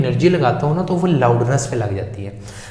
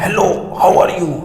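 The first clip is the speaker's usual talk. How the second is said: raised voice, drawn out slowly; louder slower demo; 5 semitones higher, much slower than usual. Shown as a demonstration. Teacher showing students a louder voice, slow and raised. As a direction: call it out as if to someone far away. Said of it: "अगर मैं बोलूँगा ना".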